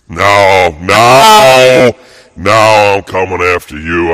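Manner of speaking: real rage bursting out; full-throated angry yell; furious shout. Real, not acted. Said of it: "I'm pissed off".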